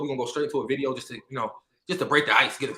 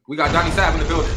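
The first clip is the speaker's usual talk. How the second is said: hype introduction; 2 semitones higher, 5 dB louder than usual. Acted. Reintroducing guest, hype.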